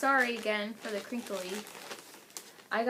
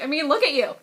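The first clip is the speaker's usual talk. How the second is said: laughing, a bit louder; laughing quote; 4 semitones higher, 6 dB louder, faster than usual. Retold or imitated. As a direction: tease her through a laugh. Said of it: "I was like".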